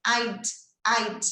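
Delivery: "I'd" as one syllable ending in just a D; isolated "I'd", would shrunk to a final D; contracted form. Shown as a demonstration. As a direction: model "I'd" twice with a pause between. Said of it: "é só o som do D".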